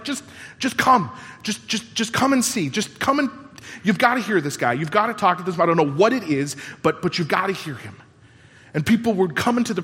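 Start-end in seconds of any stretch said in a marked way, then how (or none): 0.0-7.9 eager invitation. Retold or imitated. Friends who met Jesus urging others, excited. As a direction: plead with a friend to come see. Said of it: "and they're like".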